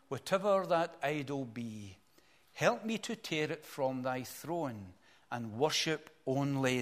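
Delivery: slow, measured reading of devotional verse; deliberate, weighty hymn verse; hymn recitation. Acted. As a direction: recite it like a heartfelt poem, drawing out the phrases.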